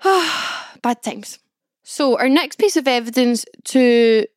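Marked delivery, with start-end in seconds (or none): 0.0-1.4 sighing. Real, not acted.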